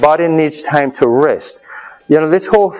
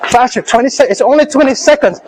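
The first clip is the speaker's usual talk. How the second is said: coaching shout; 8 semitones higher than usual. Real, not acted. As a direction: push the class through the last seconds. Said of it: "coach pushing class through sprint".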